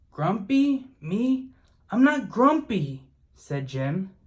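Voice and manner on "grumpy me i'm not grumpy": a touch of indignant ape, higher and louder; lightly voiced Jim, mildly offended; grumpy denial. A narrator's reading. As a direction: protest it, a mild huff. Jim denies being grumpy again.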